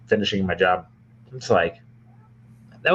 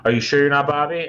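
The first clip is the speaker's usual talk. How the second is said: higher-pitched retold question; insistent questioning lady; 6 semitones higher than usual. Strange lady doubting he isn't Bobby, higher insistent questioning. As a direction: imitate her pressing for an answer. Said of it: "then she was like".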